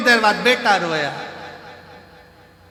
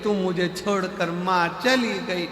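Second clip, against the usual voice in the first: mock wailing. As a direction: wail like a bereaved daughter-in-law, hammed up. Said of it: "तो बहू रो रही थी".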